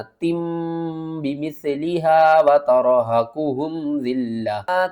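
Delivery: very slow, drawn-out Quranic chant; slow tilawat; Quran recitation. Shown as a demonstration. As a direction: recite it slowly with tajweed. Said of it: "کس طرح؟".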